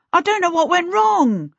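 high-pitched, mildly gasped panic; gasping. A narrator's reading. Peter explains the bathroom disaster to Charmaine, gasping. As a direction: gasp it out, pitched well up. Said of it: "he gasped".

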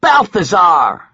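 loud slow scream. A narrator's reading. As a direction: scream the name in her face. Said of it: "I screamed in her face".

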